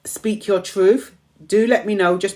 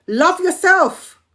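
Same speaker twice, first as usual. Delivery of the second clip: raised emphatic affirmation; 7 semitones higher, slower than usual. Real, not acted. Repeated, higher and slower.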